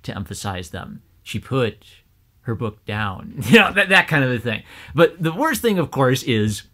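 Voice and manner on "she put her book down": "She put", break, "her book down" with forced, odd stresses; weird word emphasis. Retold or imitated. Showing how the reader emphasized words, obviously forced stress. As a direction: stress "put" and "book" oddly, as if trying too hard. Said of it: "emphasize weird words".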